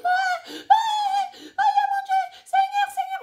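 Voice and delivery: very high, loud shrieks of terror; piercing panicked cries for help; terrified screaming. Retold or imitated. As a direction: scream to God in a speeding taxi. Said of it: "j'ai commencé à crier".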